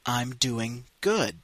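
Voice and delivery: "I'm doing good." said slowly for repeating; slow, clear repeat-after-me read; slow model. Shown as a demonstration. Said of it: "écoutez et répétez".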